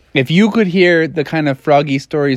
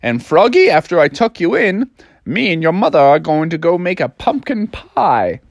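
dad; 3 semitones higher than usual. Acted. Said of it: "And his dad was like".

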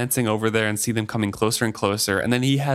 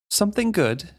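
soothing; 9 semitones higher than usual. Acted. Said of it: "Amber said soothingly".

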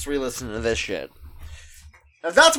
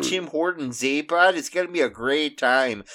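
mock Canadian accent drifting Scottish; 2 semitones lower than usual. Joking about Tim Hortons with a friend, in a mock Canadian accent turning Scottish. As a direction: play a Canadian hoser craving donuts, slipping into a Scottish lilt. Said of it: "you're drifting into a Scottish".

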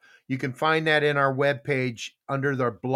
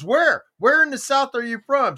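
higher, lightly acted questioning; retold barbecue cook; 9 semitones higher, 4 dB louder than usual. Cook asking where in the South, lightly voiced higher. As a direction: press for the place, pitched up. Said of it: "He goes".

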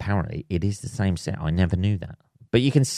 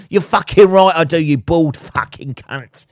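mock defiant retort; 6 semitones higher, 6 dB louder than usual. Mock retort to imagined taunter.

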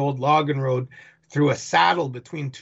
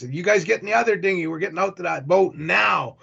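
urgent order; 4 semitones higher than usual. Retold or imitated. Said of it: "it sounds like it's an emergency".

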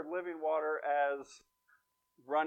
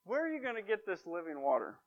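sarcastic question, pitched up at the start then falling; 3 semitones higher, 3 dB quieter than usual. Acted. Woman at the well doubts Jesus's offer, very sarcastic. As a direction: ask it as a mocking challenge. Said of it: "very sarcastically she asks".

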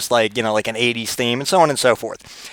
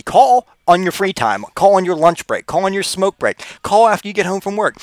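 higher, emphatic call to action; rallying; 5 semitones higher than usual. Real, not acted. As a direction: rouse the fans to call. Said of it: "rallying the army".

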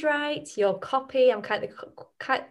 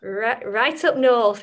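slow, drawn-out northern English vowels; broad northern English accent; 4 dB louder, much slower than usual. Shown as a demonstration. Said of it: "If I do my northern accent".

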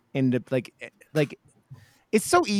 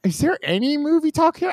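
whispering; 13 semitones higher than usual. Retold or imitated. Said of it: "I was like".

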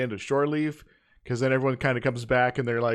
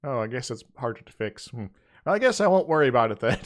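louder, fast, breezy dismissal; mock shrug; 3 dB louder than usual. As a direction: toss it off carelessly. Voicing Kirk, dismissive.

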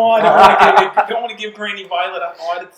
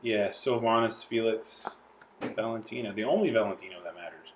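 put-on Italian accent; 10 semitones lower, 9 dB quieter than usual. Player introduces his Italian character, Italian accent. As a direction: roll it out like an Italian don. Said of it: "the accent".

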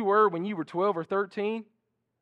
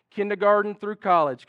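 yelling across the room; 5 semitones higher, 6 dB louder than usual. Real, not acted. Calling students to the stage.

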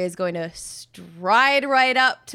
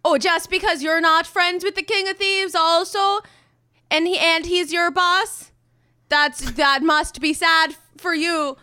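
mock pity; 5 semitones higher than usual. Taunting guards in character.

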